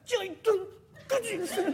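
tiny, very high furtive call; timid young woman. Acted. Young woman discreetly calling the junk man, shy and small-voiced. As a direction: squeak it out shyly, afraid to be overheard. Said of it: "若い女の人がもう気兼ねしながら".

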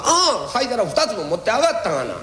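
a hint of a fretting housewife; wife's complaint.

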